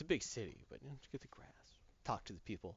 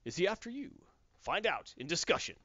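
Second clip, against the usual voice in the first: news announcer voice. Shown as a demonstration. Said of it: "news announcer voice".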